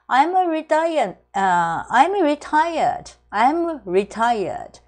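I'm retired drawn out very slowly; slow demonstration. Shown as a demonstration. Teacher showing the short answer, very slow. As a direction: stretch each syllable of "I'm retired" for learners. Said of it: "これでも退職しましたっていうふうに答えることができます".

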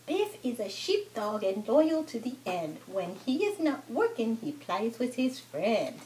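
lilting picture-book narration; children's story reading. Acted. Mother reads a farm book to her toddler, children's story reading. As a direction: read rhymes to a toddler.

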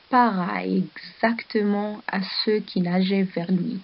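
put-on calm storybook reading for children; story narration. A narrator's reading. Teacher reading a story to the class, storybook voice. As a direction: read the tale gently to the pupils.

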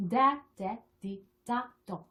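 quick syllable drill. Shown as a demonstration. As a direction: rattle through the blended sounds. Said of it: "빨리 발음할 수 있도록". (음절을 빨리 이어서 발음하기)

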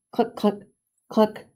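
secretive chicken clucking; scheming hens whispering clucks; whispered clucks. A narrator's reading. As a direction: cluck it like a conspiring hen. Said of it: "they whispered".

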